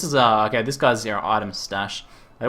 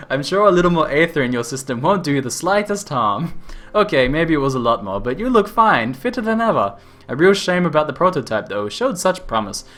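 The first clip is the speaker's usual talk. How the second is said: louder, hammed-up Australian accent; over-exaggerated Australian; 2 semitones higher, 3 dB louder than usual. Inventor brushing off the accident, in an Australian accent. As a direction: ham up a cheery Australian inventor. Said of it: "an over-exaggerated Australian ter-, stereotype voice".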